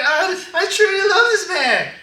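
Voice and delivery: high, loud hammed-up gush; exaggerated shrill devotion; mock gushing. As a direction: overdo the love declaration, very high and loud. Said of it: "She's like".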